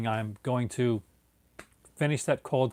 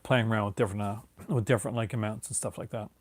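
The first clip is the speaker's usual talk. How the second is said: yawning; 2 semitones lower, 3 dB quieter than usual. Real, not acted. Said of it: "With my yawning".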